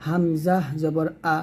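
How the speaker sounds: slow, spelled-out letter drill of হামজা জবর আ; teacher's slow drill of হামজা জবর আ. Shown as a demonstration. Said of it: "তো এগুলো হলো হারকাত".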